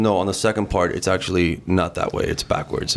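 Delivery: low mock voice of the bandmate; imitating bandmate. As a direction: lightly imitate the fussy songwriter. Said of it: "Why do you make me sound like Prince".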